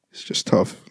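breath-only words through grief; barely getting it out, voice gone; real grief, whispered; choked-up whisper. Real, not acted. Grieving brother's breaking voice.

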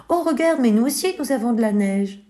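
put-on high, bright-eyed boy showing off his snow; a boy proudly showing his treasure; proud child. Bako shows the stranger his flour, proudly excited. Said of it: "montre-t-il fièrement".

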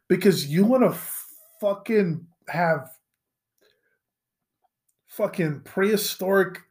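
ordinary delivery

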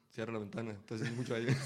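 ventana abierta en carretera. Retold or imitated. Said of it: "Así te, José".

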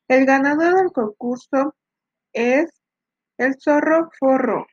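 booming prize announcer. Acted. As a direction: call out the winner like an emcee. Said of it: "anunció el ganador del concurso".

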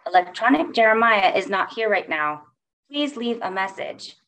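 beeping answering-machine robot voice; like a voicemail robot voice. Retold or imitated. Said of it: "he beeps".

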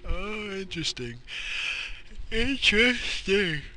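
playful leering curiosity; mock intrigued. High intrigued voice.

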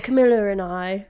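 Camilla said with an R on the end; imitating Charles. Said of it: "He'd be like".

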